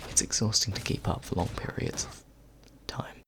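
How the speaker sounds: whispered rhyming intro, close to the mic; breathy ASMR whisper, close up; right in your ear. Acted. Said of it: "I also hope you don't mind my voice in your ears".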